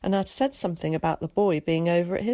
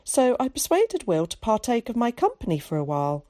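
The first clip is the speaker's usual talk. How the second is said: lightly voiced posh-sounding boy, higher; a hint of a chatty cultured boy; 5 semitones higher than usual. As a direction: chatter like a well-spoken schoolboy.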